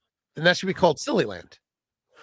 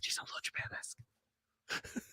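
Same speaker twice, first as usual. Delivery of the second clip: unvoiced whisper, a bit slower; 20 dB quieter than usual. Cohost echoing the joke in a slow whisper. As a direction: hush it out slowly.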